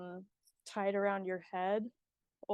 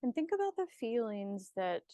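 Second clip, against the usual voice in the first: unhurried meditation guide with long pauses; guided meditation. Acted. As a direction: ease the listener into calm, leaving space between phrases.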